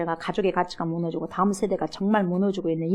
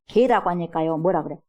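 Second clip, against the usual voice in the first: usual speaking voice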